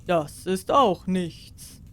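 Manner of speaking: slow, offhand wizard brag; lightly voiced sorcerer. Sorcerer shows off to the cat, slow and offhand. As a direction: shrug it off slowly.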